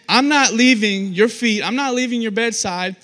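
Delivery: loud, drawn-out refusal to budge; insistent persisting. Acted. Believer at God's bedside, loudly insistent. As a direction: dig in, stressing each demand. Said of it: "He's just persisting".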